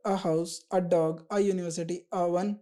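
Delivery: each example said very slowly; slow teaching read. Shown as a demonstration. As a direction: spell out the examples slowly for the class. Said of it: "ए हम consonant sound के आगे लगाते हैं".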